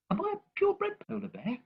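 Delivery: put-on high, curious child's voice; small child asking; baby polar bear. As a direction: ask it like an anxious little cub.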